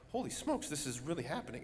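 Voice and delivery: like it finally hits you; stunned disbelief. Retold or imitated. Realizing the baby is coming.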